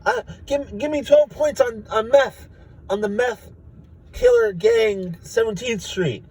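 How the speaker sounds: high, slow, strained trader shouts; shouting traders. Retold or imitated. Stock traders shouting orders across the floor. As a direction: yell your bid over the crowd. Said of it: "a bunch of people are like".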